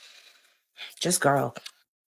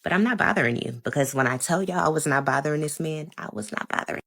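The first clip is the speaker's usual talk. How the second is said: own voice replayed; 2 semitones higher than usual. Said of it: "I said it in just the same voice I'm about to say it".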